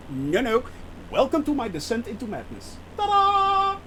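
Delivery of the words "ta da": ta-da. Real, not acted. Proud reveal of the flight.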